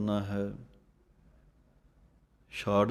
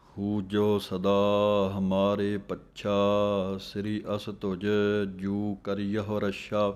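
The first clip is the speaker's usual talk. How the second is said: slow recitation; slower than usual. Acted.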